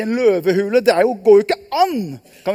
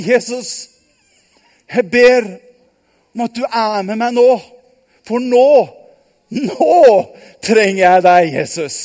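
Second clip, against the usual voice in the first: earnest prayer; 5 dB louder than usual. Acted. Daniel prays before the den.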